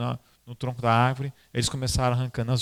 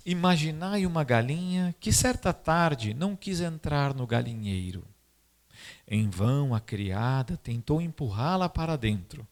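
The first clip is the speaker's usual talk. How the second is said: story narration. Acted. Reads Dom Bosco's story.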